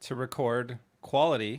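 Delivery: heavy stress on the word "quality". Repeating a practice line back to the class, stress on quality. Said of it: "emphasis there".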